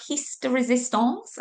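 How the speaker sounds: French accent tinged with Welsh; French accent gone slightly Welsh; bad French accent. Shown as a demonstration. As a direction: attempt a French accent and miss, ending on a rise. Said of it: "I can't do a French accent".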